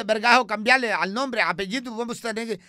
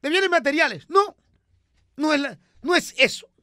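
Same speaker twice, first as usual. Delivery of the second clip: much higher, louder, comic woman's voice; high put-on character voice; 8 semitones higher, 6 dB louder than usual. Comic character voice chatting with the host. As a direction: play it high and bright like a radio sketch character.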